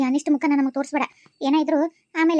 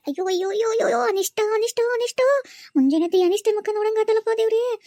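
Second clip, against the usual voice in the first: disgusted groaning; 4 semitones higher than usual. Acted. Aunt curses seeing the girl.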